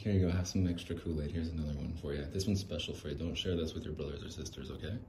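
a hushed mom sharing a secret; secretive hush. Acted. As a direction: slip it to one kid quietly. Mom whispering to one kid.

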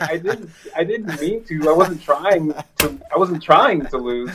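a hint of a weepy kid pleading with his coach; imitating a tearful kid. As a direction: play your sobbing child self, half-mocking. Voices his crying child self.

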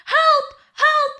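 very high-pitched mimicked call for help; high, mock-distressed cries; retold cry for help. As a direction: imitate a trapped woman yelping for help. Acting out trapped woman's cries.

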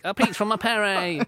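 put-on slow, high commentator call in an English accent; mock English commentator shout. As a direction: copy the English commentator for a laugh. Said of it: "I guess that's what all commentators sound like".

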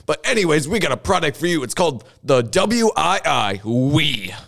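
infomercial. Pretend. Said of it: "'cause this is an infomercial".

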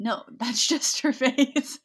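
drawn-out matter-of-fact reply; deadpan movie line. Retold or imitated. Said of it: "And he's like".

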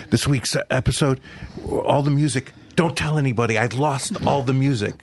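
retold panic. Retelling composer's call about lost music, mild panic. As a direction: relay a panicked phone call, slightly heightened. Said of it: "she calls me up in a panic".

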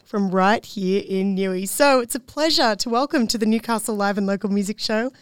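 presenter's prepared intro, lifting on the guest's name; radio guest introduction. Acted. Host welcoming a local music producer onto the show, radio intro style. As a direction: introduce the artist to listeners, building to the name.

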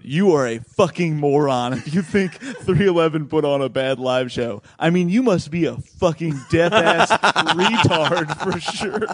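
reading an angry comment aloud; laughing through a mock tirade; mock angry rant. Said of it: "this person wrote".

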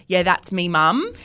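broad Australian, rising at the end; deeply Australian accent. Shown as a demonstration. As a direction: say it like an Aussie, pitch lifting on the last word. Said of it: "if it's an Australian".

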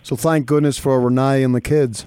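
bad imitation of an Australian accent; mock Aussie twang, hammed up. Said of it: "That was so bad".

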